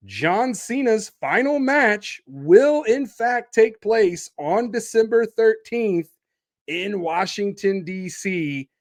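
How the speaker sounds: measured, dramatic announcer delivery. Real, not acted. Podcaster breaking Cena's final match news, announcer style. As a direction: proclaim it with weighty pauses.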